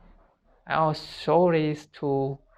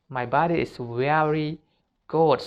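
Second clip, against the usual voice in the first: positive self-talk; 2 semitones higher than usual. Shown as a demonstration. Coaching students, the right way to talk about your body, mildly affirming. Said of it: "no, like this".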